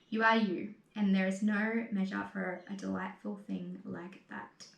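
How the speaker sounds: measured, sincere recital; poem reading. Acted. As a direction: read each line as a gentle affirmation.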